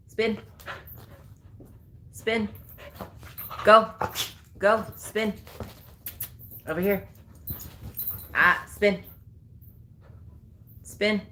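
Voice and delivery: high bright "Spin" cue; high command cue. Real, not acted. Trainer cueing dog to spin, high. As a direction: chirp the trick cue up high.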